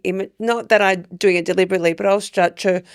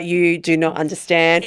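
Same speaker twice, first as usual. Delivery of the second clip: slow, word-by-word insistence; emphatic slow quote; 3 semitones lower, slower than usual. Retold or imitated. Customer explaining to the bank teller, slow and emphatic. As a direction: spell it out slowly, quoting her.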